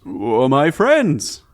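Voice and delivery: slow, loud, drawn-out greeting; Volo voice. Acted. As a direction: stretch out a slow hollow welcome.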